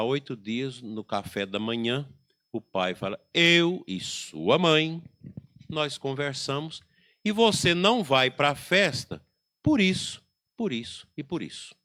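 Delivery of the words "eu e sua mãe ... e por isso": firm father. Retold or imitated. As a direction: lay down the law, word by word. Father announces firm verdict.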